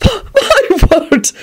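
high laugh breaking into the words; a giggled exclamation. Acted. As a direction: laugh it out, delighted. Quentin laughs at the killing.

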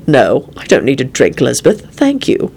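low, composed refusal; calm. A narrator's reading. Quentin declining Elizabeth's offer, calm. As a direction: decline calmly, mostly low. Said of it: "Quentin replied calmly".

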